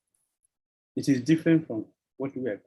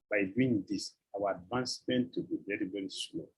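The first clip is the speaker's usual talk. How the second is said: softer and lower, sinking to a whisper; fading to a hush; 6 semitones lower, 9 dB quieter than usual. Shown as a demonstration. Preacher repeating his warning to devotees, fading to a hush. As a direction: let the warning die away to a breath.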